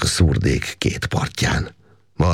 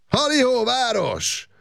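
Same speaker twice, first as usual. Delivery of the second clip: a much higher, ringing joyful call that sails off at the end; slower than usual. A narrator's reading. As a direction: hail the town from the hillside, full of joy. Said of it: "kiáltotta Makos Gábor".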